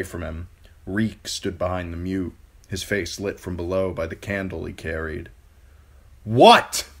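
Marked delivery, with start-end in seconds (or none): 6.2-6.9 high, loud jolted question; startled cry. A narrator's reading. Theon startled awake by the mute, shocked cry. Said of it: "Theon cried".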